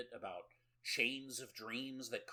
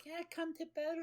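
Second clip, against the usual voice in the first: put-on demon voice sliding into a growl; faster than usual. Naked lady turning monstrous, demon voice. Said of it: "Like, demon voice".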